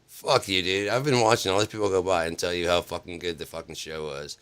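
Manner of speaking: angry telling-off. Retold or imitated. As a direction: chew him out as the fed-up friend. Imitates friend angrily telling him off.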